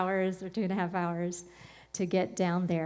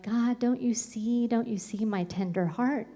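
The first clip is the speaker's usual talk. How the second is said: tearful plea; 2 semitones higher than usual. Retold or imitated. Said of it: "And I'm just crying".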